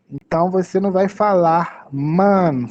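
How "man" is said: MAN with only an A sound; wrong vowel. Shown as a demonstration. Teacher warning learners off a wrong man, pure A vowel. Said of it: "só com o som do A, não".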